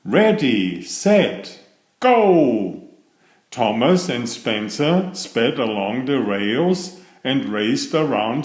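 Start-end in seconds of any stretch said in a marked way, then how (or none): 0.0-2.8 race start call. Acted.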